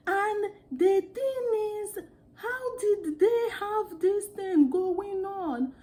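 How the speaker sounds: high, slow African accent mimicry; playful African accent imitation; copied African accent. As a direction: copy how African movie actors talk, in an African accent. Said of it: "We're just speaking like that".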